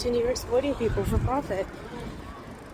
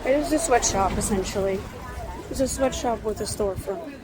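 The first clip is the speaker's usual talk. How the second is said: hiccups. Real, not acted. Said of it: "I'm hiccuping".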